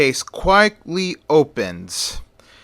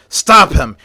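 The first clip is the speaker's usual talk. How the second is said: louder shouted order; loud command; 5 dB louder than usual. Acted. Cop shouting as Batman runs for the window. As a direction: shout at the escaping man.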